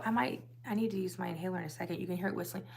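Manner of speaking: wheezy, scratchy throat. Real, not acted. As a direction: talk through a scratchy voice. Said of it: "It just sounds like a scratchy voice".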